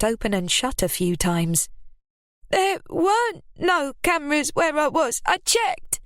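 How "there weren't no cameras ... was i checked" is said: high, defensive insistence; defensive Ruby. A narrator's reading. Ruby lying to Lily about the cameras. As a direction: bluff your way through.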